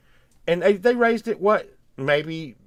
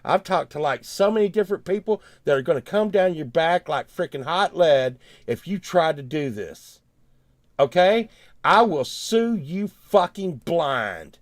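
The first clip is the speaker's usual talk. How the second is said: retold angry threat; 2 semitones higher, 3 dB louder than usual. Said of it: "I said".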